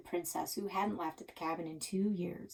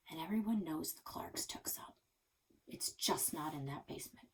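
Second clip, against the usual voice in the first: hushed; 8 dB quieter than usual. Acted. Conspiratorial gossip.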